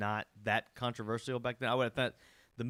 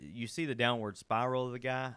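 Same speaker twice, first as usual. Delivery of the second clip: lips gone numb, slightly slurred. Real, not acted. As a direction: talk through numb lips. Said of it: "my lips are like numb".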